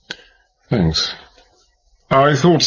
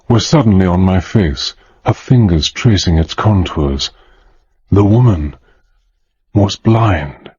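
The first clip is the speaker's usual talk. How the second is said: suspense narration; 2 semitones lower than usual. A narrator's reading. Hannay narrating the blind woman's touch, tense storytelling. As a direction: narrator building tension, landing on was blind.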